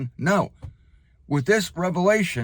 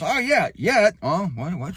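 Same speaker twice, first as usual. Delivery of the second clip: mock double take; 3 semitones higher than usual. Mock catching himself mid-reading.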